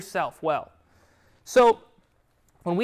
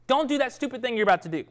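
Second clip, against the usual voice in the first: mock rebuke; 4 semitones higher, 4 dB louder than usual. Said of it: "they need to be told".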